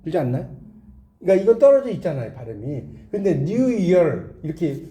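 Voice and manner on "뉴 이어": "뉴 이어" stretched slowly across its vowels; drawn-out demonstration. Shown as a demonstration. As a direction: spell out the sounds of "뉴 이어" slowly. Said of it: "한국 사람 발음하기 힘드니까". ("뉴 이어"를 천천히 늘여서 발음)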